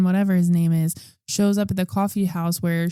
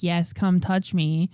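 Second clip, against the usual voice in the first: mock seductive invite; slower than usual. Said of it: "her body language is not saying".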